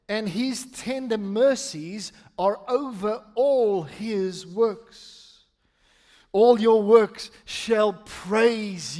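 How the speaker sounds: measured psalm reading, punching phrase openings; emphatic scripture reading. Acted. Pastor reading the psalm to the church, measured and emphatic. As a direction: read deliberately, with space after each phrase. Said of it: "read it with emphasis on different things".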